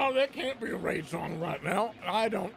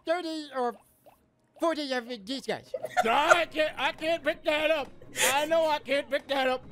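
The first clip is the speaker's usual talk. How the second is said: funny voice; 4 semitones higher than usual. Acted. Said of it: "I'm trying to do voices".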